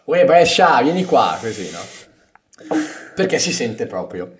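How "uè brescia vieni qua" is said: loud mock call across the room. Friends in Cologne calling him over, a loud hail. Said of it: "mi chiamavano Brescia".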